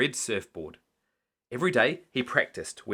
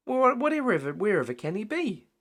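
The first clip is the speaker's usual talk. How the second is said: worried fretting; 10 semitones higher than usual. A narrator's reading. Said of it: "worried wife searching".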